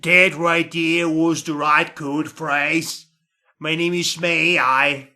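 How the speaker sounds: a hint of a cockney accent, partly put on; attempted cockney. The woman agent greets the spies in a light cockney accent. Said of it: "this is me trying to sound cockney".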